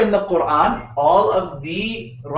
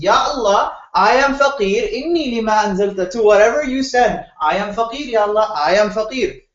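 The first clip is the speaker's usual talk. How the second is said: higher, desperate pleading prayer; emotional plea; 3 semitones higher than usual. Retold or imitated. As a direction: cry out to God in despair. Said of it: "has an emotional breakdown and says".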